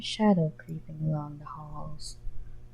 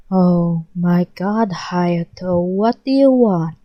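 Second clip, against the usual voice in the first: louder, slow exasperated snap; irritated snap; 6 dB louder, slower than usual. Acted. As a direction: snap at him, fed up. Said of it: "Chuna snapped".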